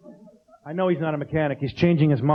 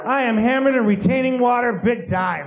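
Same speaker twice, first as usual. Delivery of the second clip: higher, laughing tipsy boast; mock drunk woman; 5 semitones higher than usual. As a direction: play a tipsy partier. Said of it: "women going".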